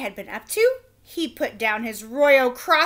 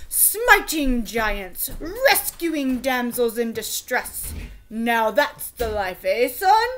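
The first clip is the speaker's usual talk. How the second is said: king voice; 4 dB louder, slower than usual. Acted. King urging son to be knight.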